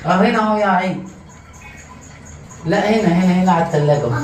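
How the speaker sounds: calling out. Real, not acted. Calling someone over to the spot.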